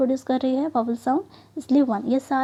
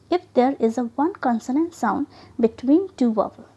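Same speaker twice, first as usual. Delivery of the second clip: slow rule reading; much slower than usual. Shown as a demonstration. Teacher reading a spelling rule to the class, very slowly. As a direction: read the rule very slowly and deliberately. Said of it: "reading rule slowly to students".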